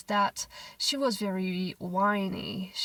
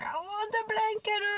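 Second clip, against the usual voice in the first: put-on high little-girl whine; imitated toddler demand; 12 semitones higher than usual. Mother imitating her daughter wanting the blanket, high and whiny. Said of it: "So she's like".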